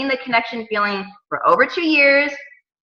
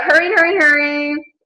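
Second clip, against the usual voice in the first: hurrying; 5 semitones higher than usual. Retold or imitated. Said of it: "I'm trying to hurry".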